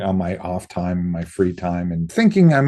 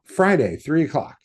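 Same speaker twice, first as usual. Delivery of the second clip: higher, clipped-off scheduling; brisk mock director voice; a higher Quentin impression; imitating Quentin; 10 semitones higher, 3 dB louder than usual. Quentin setting the audition.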